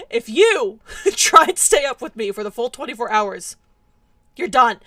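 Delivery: loud playful warning. Acted. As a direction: warn them, half-joking. Threatening chat playfully.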